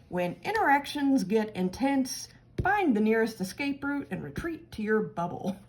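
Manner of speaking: a hint of a pompous fish professor pronouncing wisdom; weird professor voice. Reading the card's message in the fish professor's lightly weird voice. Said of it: "I could hear his voice and his weird voice and his weird accent".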